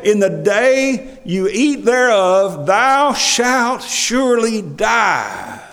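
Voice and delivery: slow, weighty pronouncement; solemn voice of God. Acted. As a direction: pronounce it like a sentence from above. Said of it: "You know what he said".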